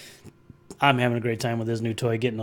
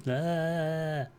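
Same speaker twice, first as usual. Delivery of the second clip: long, held, slightly raised "ahhh"; drawn-out "ahh"; 4 semitones higher, 6 dB quieter than usual. Retold or imitated. Streamer acting out their reaction with a drawn-out "ahh". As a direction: hold a wordless "ahh" as a mock reaction. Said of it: "I'm like".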